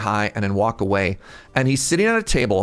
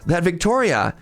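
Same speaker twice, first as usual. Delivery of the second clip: higher, eager fact-sharing; pitched-up, mock-keen announcement; retold trivia delivery; 5 semitones higher than usual. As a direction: imitate someone proudly dropping trivia. Voicing the man's awkward trivia.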